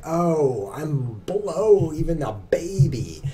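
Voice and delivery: lightly voiced self-pitying newbie; a hint of a sulky beginner moaning; whiny beginner voice. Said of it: "makes you feel like".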